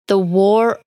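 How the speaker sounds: slow and careful, with spaced-out words; deliberately slowed book title; said slowly. Real, not acted. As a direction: take the title slowly, checking each word. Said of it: "I'm just saying that slowly".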